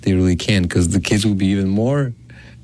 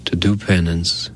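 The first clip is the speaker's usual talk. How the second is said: recited prayer. Acted. Priest praying an act of contrition, measured prayer. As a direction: pray it evenly, in short solemn phrases.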